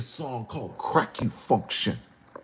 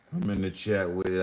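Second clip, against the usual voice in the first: faster second take; quicker repeat; 7 semitones lower, 5 dB quieter, faster than usual. Shown as a demonstration. Repeating the line to the chat, quicker. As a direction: rattle it off quicker.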